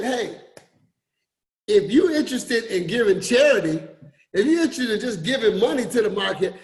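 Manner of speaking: lightly voiced friend's quip; breezy mock offer; a hint of Miss Dyer's joking tone; imitating Miss Dyer. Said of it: "That's how she talked".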